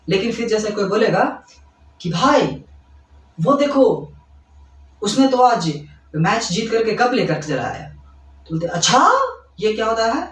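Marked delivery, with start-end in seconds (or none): 2.0-7.9 excited news-telling. Acted. Friend telling others about a match win, excited. 8.7-9.1 surprised. Shown as a demonstration. Teacher showing a reaction to surprising match news, surprised. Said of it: "आश्चर्यचकित".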